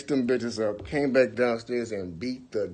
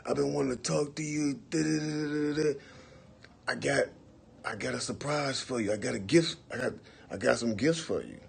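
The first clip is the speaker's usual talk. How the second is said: higher, fast, sweet-talking; overly friendly; 5 semitones higher, 3 dB quieter than usual. Retold or imitated. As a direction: gush like an old friend. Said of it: "he sound normal, like".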